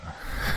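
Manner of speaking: put-on soft breathy old man's chuckle; a quiet toothy chuckle. Old reverend chuckles at the shy newcomer, soft chuckle. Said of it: "He gave off an old man's chuckle".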